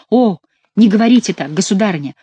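громкое наигранное восклицание; воскликнуть с притворной болью; восклицая. A narrator's reading. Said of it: "воскликнул Франсуа". (притворно, громко восклицая)

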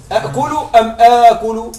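أأكل with two separate hamzas, then آكل with one long a; contrasting the two forms. Shown as a demonstration. Teacher contrasting forms for students, two hamzas versus long a. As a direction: compare أأكل and آكل aloud. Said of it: "ما الأسهل؟".

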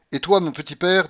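high, loud challenge; imperious address. Acted. Grandmother suddenly addresses the general, imperious. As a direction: turn on him sharply.

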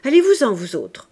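loud, sharp dismissal of the daughters; a father ordering his daughters out, loud and brusque; curt order. Acted. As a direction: send them out with a bark. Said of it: "dit à ses filles".

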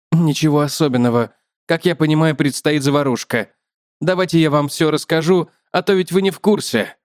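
slightly lifted spider character voice; lightly voiced explaining spider; talkative spider. Spider tells the man of an agreement, lightly lifted voice.

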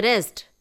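रेस्ट said alone with a firm falling stress; stress on rest. Acted. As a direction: lean hard on रेस्ट. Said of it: "रेस्ट पर उसने विशेष जोर दिया". (रेस्ट पर ज़ोर देकर)

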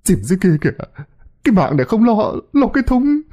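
high, climbing plaintive retort; fretful high-pitched wail; distressed whining. A narrator's reading. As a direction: complain in a scared whimper. Frightened man whines back in dismay.

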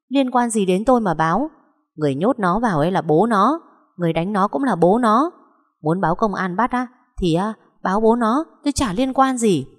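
quarrelsome, self-defending protest; defiant retort. Acted. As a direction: shrug off the blame indignantly. Accused woman argues back in quarrel.

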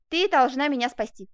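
loud, emphatic plea; urgent exclamation. Acted. Lover begs the seamstress for help, urgent. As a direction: beg for rescue with force. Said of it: "воскликнул Жак".

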